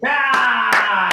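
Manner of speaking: loud, high drawn-out cheer; hearty shout; crowd cheer. Acted. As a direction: whoop in approval of the new title. Crowd applauds the title.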